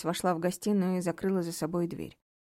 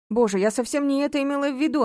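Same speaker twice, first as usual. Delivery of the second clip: higher, louder dismay; shocked protest; 7 semitones higher, 6 dB louder than usual. A narrator's reading. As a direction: shaken denial. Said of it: "потрясённая женщина".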